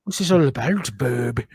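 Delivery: mock Canadian Wolverine, dropping low on the last word; jokey Canadian tough-guy accent; Nova Scotian accent. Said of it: "It's a Nova Scotian accent".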